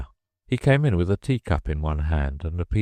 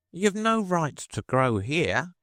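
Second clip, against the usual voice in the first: slow high dormouse; 11 semitones higher, slower than usual. Acted. Dormouse scolding.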